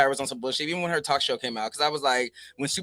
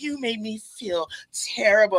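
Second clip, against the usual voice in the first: put-on weepy, teary, tearful crying voice; 8 semitones higher than usual. Retelling a TV scene where Tyra sat there: imitating Tyra crying. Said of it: "Tyra sitting there, like, crying".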